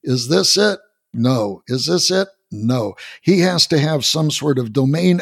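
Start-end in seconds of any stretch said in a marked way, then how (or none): 0.0-3.0 lightly acted back-and-forth guessing game; blind man trial and error. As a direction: swing between a pitched-up question and a dull no. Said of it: "by just saying".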